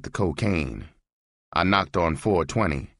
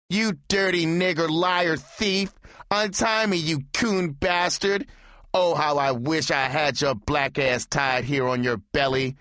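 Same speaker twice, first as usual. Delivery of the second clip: screaming; 10 semitones higher than usual. A narrator's reading. Tied-up lover screaming hatred at the departing pimp. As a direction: hurl abuse while tied up. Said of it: "He screamed".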